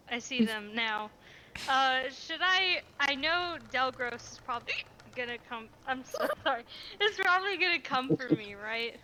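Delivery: hiccuping while talking; hiccups. Real, not acted. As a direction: speak through hiccups. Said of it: "Charles hiccuped in our ear".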